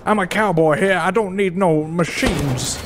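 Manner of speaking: put-on half-hearted cowboy accent; mock cowboy accent. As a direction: play at being a cowboy with an uncertain accent. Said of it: "I don't know what this accent is".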